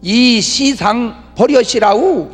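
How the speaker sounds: put-on very slow drawn-out Jeolla accent; leisurely Jeolla-style "이 시상 버려시라우"; Jeolla dialect. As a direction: stretch each syllable like a Jeolla elder. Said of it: "전라도 사람들은".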